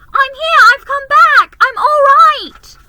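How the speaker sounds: put-on high, loud girl's shout; excited child yelling from far away. A narrator's reading. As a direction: call out loudly to the others. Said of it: "she shouted".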